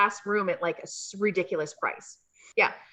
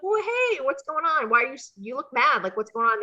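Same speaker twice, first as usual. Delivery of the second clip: higher playful innocent act; innocent girlfriend; 4 semitones higher than usual. Retold or imitated. To her angry partner, lightly higher innocent act. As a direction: play innocent with Deuce. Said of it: "I'm like".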